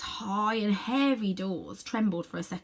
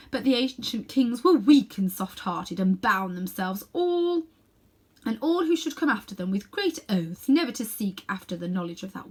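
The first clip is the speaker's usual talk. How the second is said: proud queen; 3 semitones higher than usual. Acted. Queen tells of the word.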